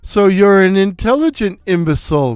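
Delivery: fast, mocking jab; wisecrack. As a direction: crack it like a Stooge insult. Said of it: "Mo cracked".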